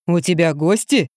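a heavy man grumbling at a stranger; displeased man. A narrator's reading. Мужик недовольно спрашивает Люду о госте, низко и ворчливо. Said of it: "весьма недовольно спросил".

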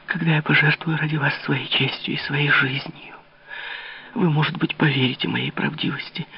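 high plea fading to a whisper; confess, dropping to a whisper; emotional confession. A narrator's reading. Louise confessing to the king, fading into a whisper.

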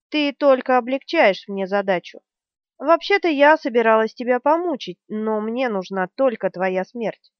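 a touch of cruelty; menacing taunt. Acted. Berdine threatening Richard.

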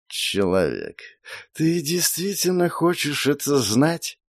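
grumbling serpent spirit; displeased serpent. Acted. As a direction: answer with sour irritation. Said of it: "недовольно поморщился змей".

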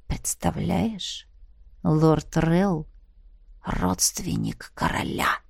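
slow, breathy conspiratorial whisper; whispering a secret. A narrator's reading. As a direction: lean in and whisper it. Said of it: "заговорщицким шёпотом произнёс друг".

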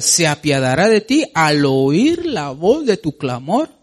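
fervent preaching. Acted. Preacher declaims scripture.

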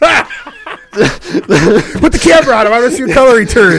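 loud, high gleeful teasing; shouting for the camera to catch him blushing; excited teasing. Real, not acted. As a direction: egg him on loudly as he blushes.

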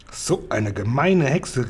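slow, mildly indignant outburst; indignant exclamation. Acted. Giant reacts to the cruel matron, mildly indignant. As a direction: draw out the insult with restrained outrage. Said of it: "rief der Guri".

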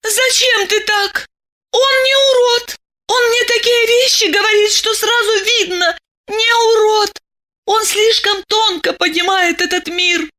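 put-on high, hurt young woman; high girl defending her beloved; indignant girl. A narrator's reading. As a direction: protest up high. Masha defends him indignantly.

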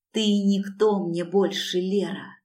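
plain reading voice

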